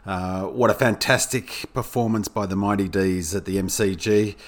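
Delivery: croaky, sick voice. Real, not acted. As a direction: talk through a croaky throat. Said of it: "apologies for my croaky voice".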